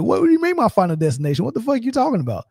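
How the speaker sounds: high, fast mock panic climbing to a squeak; hammed-up terror at the desk; rising frantic disbelief, retold; panicked. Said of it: "I'm like".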